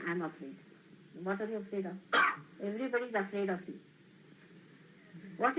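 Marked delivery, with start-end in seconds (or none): 0.1-0.6 polite politician's phrase. Retold or imitated. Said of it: "politician who is so dominating will say".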